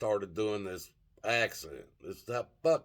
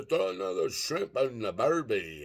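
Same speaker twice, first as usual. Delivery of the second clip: higher-pitched mock Australian accent; imitated Australian accent; 5 semitones higher than usual. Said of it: "talking in this Australian accent".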